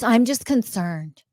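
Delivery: mock concern. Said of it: "or their parents".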